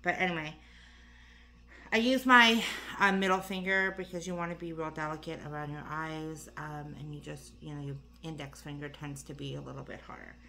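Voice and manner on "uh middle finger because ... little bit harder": out of breath. Real, not acted. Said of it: "I don't know why I'm out of breath".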